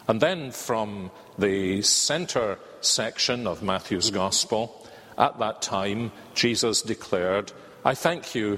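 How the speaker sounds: measured, solemn reading of Jesus's words; scripture reading. Acted. Preacher reading Matthew to the congregation, solemn scripture reading. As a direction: read the Gospel aloud to the congregation. Reading Gospel passage aloud.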